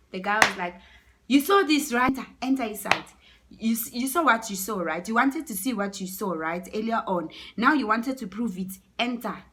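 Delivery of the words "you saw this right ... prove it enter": loud, raised, accusing voice; acted stern man laying down the law; angry ordering. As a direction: order the culprit inside. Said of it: "was so mad".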